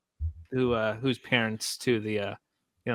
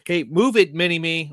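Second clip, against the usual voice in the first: raised, higher bossy call; mock yell at someone in your way; loud-ish retold order; imitated yelling; 5 semitones higher, 4 dB louder than usual. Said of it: "He's, like, yelling at him".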